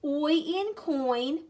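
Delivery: OI as in COIN, said slowly; sound drill. Shown as a demonstration. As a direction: chant the OY sound, then "in coin". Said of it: "saying our special sounds out loud".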